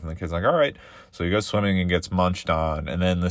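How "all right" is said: put-on high whiny little kid asking; a child begging mom to swim. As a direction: play the eager small boy.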